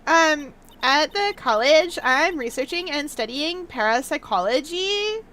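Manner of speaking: put-on Valley Girl accent. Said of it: "do a Valley Girl accent".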